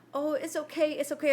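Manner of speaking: imitating a kid calming the dog; sweet soothing. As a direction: soothe the scared dog kindly. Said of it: "Nate is so sweet".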